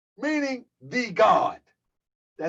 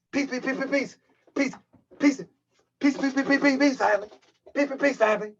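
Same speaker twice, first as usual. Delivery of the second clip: mocking a higher, squeaky peace greeting; Pharaoh Allah squeaky voice; 4 semitones higher, faster than usual. Host mocking rival's high voice on his channel, squeaky mock. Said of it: "That's what he do".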